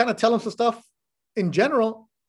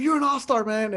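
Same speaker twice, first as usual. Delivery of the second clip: imitating a pumped-up friend, pitched higher; fired-up hype; 4 semitones higher than usual. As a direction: hype him up like a buddy cheering. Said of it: "Nick Valencia gets all fired up".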